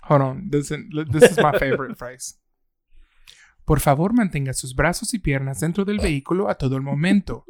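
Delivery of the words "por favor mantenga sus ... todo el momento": lightly imitated Spanish ride announcement; a hint of park announcer, in quick Spanish; Disney World announcement. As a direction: recite it briskly like a recorded safety message. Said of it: "right after they say that".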